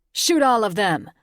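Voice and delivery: loud, high, furious command to fire; a raging order to open fire. Acted. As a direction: bark it at the soldiers. Enraged agent orders soldiers shoot.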